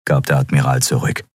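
ordinary delivery

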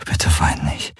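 whisper. A narrator's reading. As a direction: breathe the words close, unvoiced. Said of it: "flüsterte er ihr ins Ohr".

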